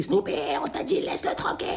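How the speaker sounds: hushed mock scolding, fading into a whisper. Friend pulls his dog away, whispered scolding. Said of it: "il crie".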